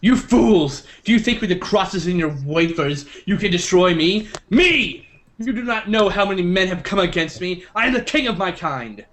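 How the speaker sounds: grand vampire villain declaiming; booming echoing villain monologue. Acted. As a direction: proclaim it like Dracula. Quoting Dracula's speech.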